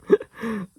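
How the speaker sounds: short, high acted chuckle. A narrator's reading. Connor amused by the cook's reply, short chuckle. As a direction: give a brief chuckle before speaking. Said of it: "Connor chuckled".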